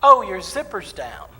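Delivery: loud, slow mock announcement; imitating a helper announcing it loudly; blurted announcement. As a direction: blurt it out for the whole room to hear. In the microphone.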